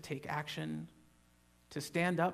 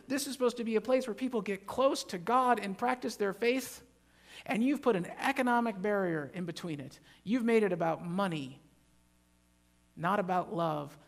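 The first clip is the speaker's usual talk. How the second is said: angry; 4 semitones higher than usual. Retold or imitated. Jesus voiced in temple.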